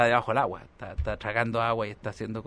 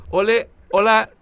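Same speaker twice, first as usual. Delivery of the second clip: higher, louder showy greeting, slow; posh hammed-up hello; 9 semitones higher, 10 dB louder, slower than usual. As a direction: greet the beach like a snob. Saludo fingido al llegar a la playa. (saludo pijo exagerado, más agudo, fuerte y lento)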